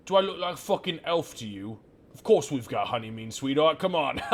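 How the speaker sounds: half-orc barkeep scoffing at an elf question; mocking barkeep. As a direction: scoff at the customer, then laugh it off.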